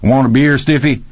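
high, jolly offer without real laughter; high-spirited, teasing invitation; cackling. A narrator's reading. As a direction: crow the offer to an old pal. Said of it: "Rocky cackled".

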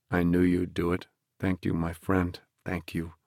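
soft, fading, choked thanks; tearful gratitude. Acted. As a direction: whisper the thanks through tears. Prisoner weeping with gratitude.

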